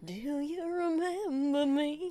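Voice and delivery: slowed-down creepy echo of the line; mock creepy stranger voice; slow creepy repeat. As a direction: drag it out like a stalker. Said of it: "That's how he asked".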